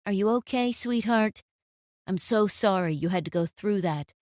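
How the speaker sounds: a touch of tender concern; gentle comfort. Acted. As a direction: soothe her kindly. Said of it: "smiled such a gentle smile".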